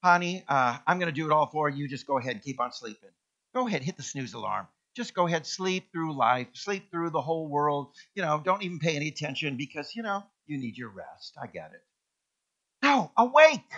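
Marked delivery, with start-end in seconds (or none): 0.0-11.4 mock coddling voice. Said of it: "It didn't say". 12.8-13.7 loud, high wake-up call; ringing command to awake. Acted.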